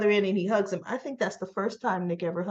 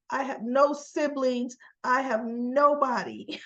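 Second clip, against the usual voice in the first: despairing Adam; 5 semitones higher than usual. Retold or imitated. Adam despairing to his father.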